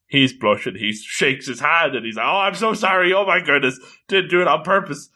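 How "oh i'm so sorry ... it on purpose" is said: higher-pitched, flustered apology; freaking out. Acted. Boy apologizing to her for an accidental grab, flustered. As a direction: blurt a panicked apology. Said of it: "he's freaking out".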